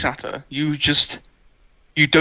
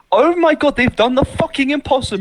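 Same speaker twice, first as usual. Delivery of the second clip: higher-pitched, acted-out astonishment; amazed exclamation; 6 semitones higher than usual. Your brain thinking they've done the impossible, amazed. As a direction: voice the stunned fan's realisation. Acts out viewers' amazed thought.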